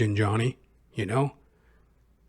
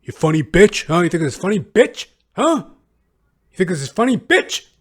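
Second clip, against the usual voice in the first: retold angry yelling; 3 dB louder than usual. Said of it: "and he goes".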